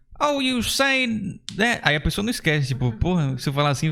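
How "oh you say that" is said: put-on Texan drawl, very high and slow. Showing how he answers people in English, using an imitated Texan accent. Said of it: "eu fico imitando o Texas, o, o Texan accent, ou uh, um sotaque geralzão do sul".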